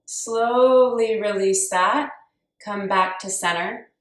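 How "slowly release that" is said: slow words through a forced underbite; talking with jaw jutted. Real, not acted. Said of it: "Super hard to talk doing that underbite".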